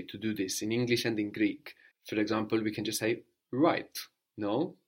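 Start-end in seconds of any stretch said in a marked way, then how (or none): 3.5-4.0 order. Shown as a demonstration. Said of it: "like we give an order".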